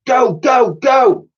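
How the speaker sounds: high, loud urging; urgent calling out. Acted. Girl urging friends across ice, loud call. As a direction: drive them on across the ice. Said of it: "called out Elsie".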